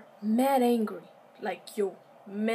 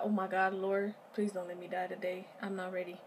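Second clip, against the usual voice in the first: panicked prayer; 5 dB quieter than usual. Retold or imitated. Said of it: "And so I'm just like".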